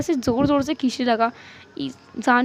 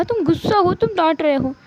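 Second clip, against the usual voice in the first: slightly raised, insistent whine; whiny accusation; 4 semitones higher than usual. Acted. Spouse accusing husband of anger, mildly whiny. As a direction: keep accusing, a touch petulant.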